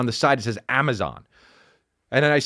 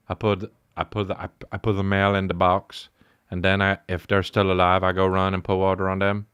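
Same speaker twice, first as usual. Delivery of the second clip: put-on low kid-like answer, steady and earnest; lightly voiced obedient son; dutiful son; 10 semitones lower than usual. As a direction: recite it like an obedient boy.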